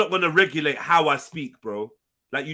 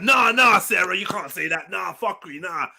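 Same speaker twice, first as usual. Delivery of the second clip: mock protest. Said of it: "No one was like".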